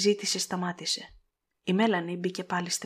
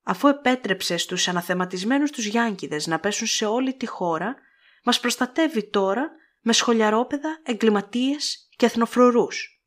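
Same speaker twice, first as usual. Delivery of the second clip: building to a loud, higher furious outburst; angry tirade; 5 semitones higher, 5 dB louder than usual. A narrator's reading. Scarlett railing at the general, rising to fury. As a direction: let the anger climb to the last words.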